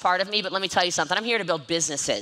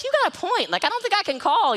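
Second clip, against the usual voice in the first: mock conceding; 10 semitones higher than usual. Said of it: "I was like".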